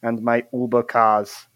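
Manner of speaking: put-on slow, measured accented villain voice; menacing villain. Villain addressing former friends of Gumpleton, slow menace. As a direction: take your time, spite in every phrase. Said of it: "what you hear is this".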